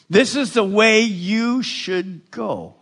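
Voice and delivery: slowed, weighted words; slow meaningful reading. Shown as a demonstration. Pastor modelling reading with application. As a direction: read it slowly, meaning every word. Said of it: "read it with application".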